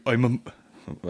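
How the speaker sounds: attempted accent for a TV character; botched character accent. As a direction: try an accent and miss it. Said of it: "I don't know what that accent was".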